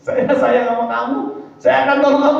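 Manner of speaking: mock the friend who only talks; mock friend's empty promise. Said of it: "Orang lagi butuh pertolongan".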